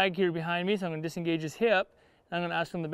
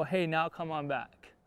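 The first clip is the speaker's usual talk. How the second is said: gentle cue to the horse; 2 semitones lower, slower than usual. Shown as a demonstration. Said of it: "and then I go".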